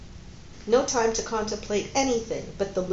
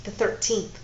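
gently. Acted. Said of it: "he told her gently".

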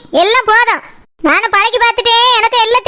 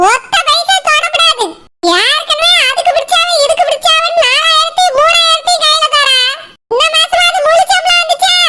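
higher-pitched nagging scold that bursts out on the last question; 5 semitones higher than usual. Acted. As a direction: scold her, then shout the salary question. Mother-in-law scolds over salary. (மருமகளைத் திட்டும் மாமியார், உரத்த கோபக் குரல்)

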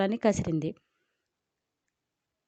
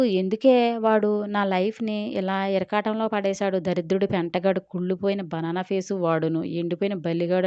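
frustrated cursing. Acted. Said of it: "తిట్లు లంకించుకుంది".

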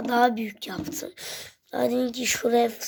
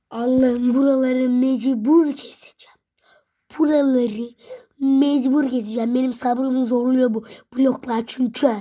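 louder exasperated complaint; 6 dB louder than usual. Real, not acted. Blocks keep falling, kid vents loudly. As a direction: vent at the stubborn blocks.

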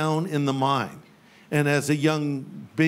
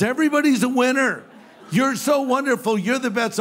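mocking overpraise; 6 semitones higher, 3 dB louder than usual.

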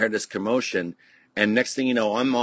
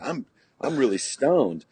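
slow, higher, mock-proud confession; proud admission; 5 semitones higher than usual. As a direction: imitate a kid proudly owning up, drawn out. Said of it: "I'm proud as I made this statement".

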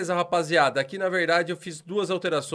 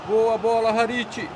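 building to a shouted goal call, higher and louder; explosive goal commentary; 6 semitones higher, 3 dB louder than usual. Real, not acted. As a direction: narrate the goal rising into a yell. Narrando o próprio gol, crescendo. (narração de gol explosiva, subindo até o grito)

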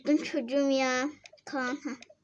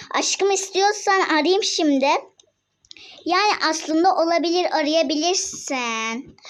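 complaining loudly; 5 dB louder than usual. Real, not acted. Mother complaining about chores.

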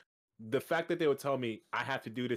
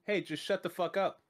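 mock shout; 6 semitones higher than usual. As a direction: bark it back at a bossy raider. Mocking reply to bossy raiders.

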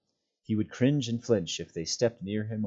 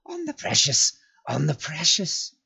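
cowering Gollum; 7 semitones higher, 5 dB louder than usual. A narrator's reading. Gollum cowering before Frodo, repeating the oath.

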